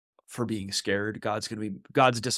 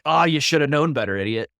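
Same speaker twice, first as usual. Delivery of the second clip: louder, higher mock rebuke, dropping on the insult; mock scolding; 3 semitones higher, 5 dB louder than usual. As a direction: imitate someone scolding a fool. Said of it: "Rather than a".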